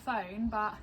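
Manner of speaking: hushed morning voice; quiet. Real, not acted. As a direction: talk softly, people nearby.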